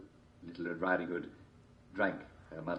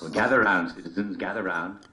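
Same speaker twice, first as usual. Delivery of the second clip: storyteller calling; 8 dB louder than usual. Acted.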